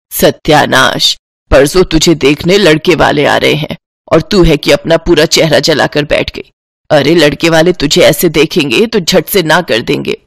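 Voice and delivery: an exasperated mother berating her daughter; scolding mother. Acted.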